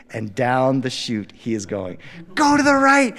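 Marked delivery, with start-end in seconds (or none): 2.3-3.1 higher, louder urgent call. Retold or imitated. Dad shouting steering advice to his son on the sled. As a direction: yell the warning down the hill.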